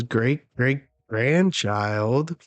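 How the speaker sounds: put-on very slow, lightly drunken drawl of the word; a touch of tipsy slur. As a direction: stretch it out like a sloshed old man. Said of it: "just sloshed".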